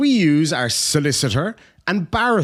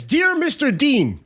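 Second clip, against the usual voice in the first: mock pompous lawyer; 11 semitones higher, slower than usual. Mock reading of lawyer email.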